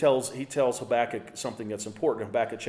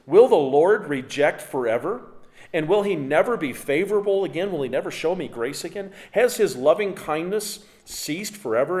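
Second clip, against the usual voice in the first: loud, higher, pleading questions; impassioned scripture reading; 5 semitones higher, 6 dB louder than usual. Acted. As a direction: declaim each question up to God. Reads the psalmist's questions.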